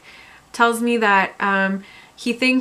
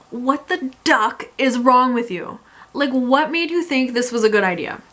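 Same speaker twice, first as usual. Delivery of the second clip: exasperated confronting; 3 semitones higher than usual. Retold or imitated. Speaker confronting the hotel guy in her room, indignant.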